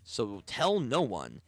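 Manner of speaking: measured, deliberate informant voice; a lightly voiced, conspiratorial broker; secretive informant. Information broker gives secret instructions.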